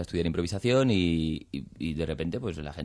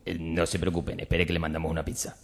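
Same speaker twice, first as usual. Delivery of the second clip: louder and higher, rising panic; panicky; 6 semitones higher, 4 dB louder than usual. Acted. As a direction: panic as the water climbs. Water rising, panicking in improv.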